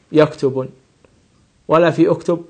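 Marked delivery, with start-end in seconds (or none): 0.1-0.7 "يكتب" forced with a wrong -n ending, yaktubn; wrong nunation. Shown as a demonstration. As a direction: show the mistake by adding tanween to يكتب. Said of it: "ولا في يكتب".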